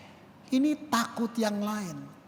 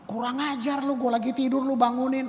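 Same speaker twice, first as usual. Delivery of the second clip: higher, louder irritated snap; mock angry rebuke; 5 semitones higher, 3 dB louder than usual. Woken pastor scolding his disciples, mock angry. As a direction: play a grumpy woken pastor. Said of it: "itu pendeta yang kayak gitu".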